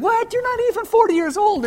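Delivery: high, loud scoffing disbelief; incredulous mocking crowd. The crowd jeers at Jesus in loud high disbelief. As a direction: scoff at him like a jeering crowd.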